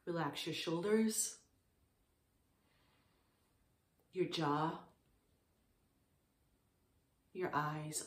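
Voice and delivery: calm, unhurried meditation guidance with long pauses; short, settled phrases with room to breathe; guided meditation. Real, not acted. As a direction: guide listeners gently into stillness, leaving space between phrases.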